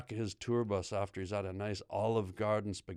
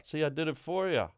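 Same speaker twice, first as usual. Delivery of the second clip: ordinary delivery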